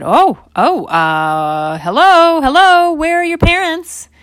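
high, sweet surprised lady voice; startled lady. Acted. Lady in car greeting lost toddlers, high and sweet.

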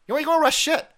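taunting. Real, not acted. Taunting the officials, repeated louder.

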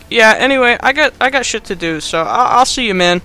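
breezy mock villain making his excuses; Jigsaw. Killer takes leave of Adam, mock casual brush-off. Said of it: "then Jigsaw's like".

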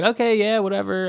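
high, sarcastic okay whatever; dismissive. Retold or imitated. Retelling a dream, dismissing the strangers' gibberish. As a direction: brush it off in a high mock voice.

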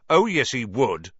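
put-on boy shouting down the teacher; loud retort. A narrator's reading. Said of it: "even more loudly than Dean".

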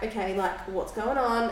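level and unbothered, imitating him; calm. Partner calling back to check on her, calm. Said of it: "Again, calm".

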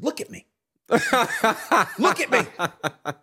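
high, loud, rising into a shout; mock demanding lady. Ex-player imitating the lady demanding he recognize her face, rising shout. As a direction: build from insistent to a shouted challenge. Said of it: "She says".

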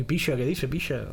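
put-on light Cádiz accent, aspirated s; tossed-off imitation of a Cádiz local; a hint of Cádiz drawl on picha. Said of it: "el de Cádiz es parecido al sevillano".

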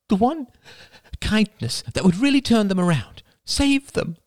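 mother urging forgiveness; pleading mother. A narrator's reading. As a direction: beg for mercy for family. Mother voiced high.

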